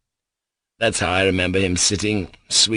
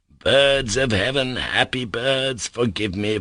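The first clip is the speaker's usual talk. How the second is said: tender plea; 3 semitones higher than usual. Acted. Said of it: "begging their forgiveness".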